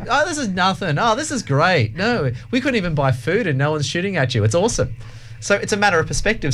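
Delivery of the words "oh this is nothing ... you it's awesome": voicing the unfazed Lebanese lady, pitched up. Speaker quotes the chemist shop lady to his hosts, amused and pitched high. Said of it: "she's like".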